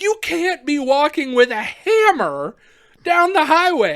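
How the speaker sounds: imitated exasperated officer; mock reprimand. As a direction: lay down the rule through a laugh. Retold cop reprimands him.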